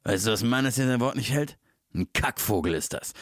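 dead serious dubbed gangster; Al Pacino. Retold or imitated. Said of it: "wie einfach Al Pacino völlig ernst da sitzt und sagt".

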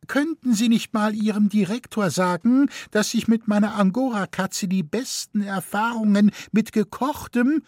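put-on high, fretful elderly lady; anxious old lady. A narrator's reading. Elderly lady asking the keeper about the bars, high and fretful. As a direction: fuss at the keeper nervously.

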